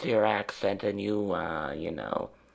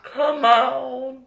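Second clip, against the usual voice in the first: laughing; 7 dB louder than usual. Real, not acted. Bursts out laughing.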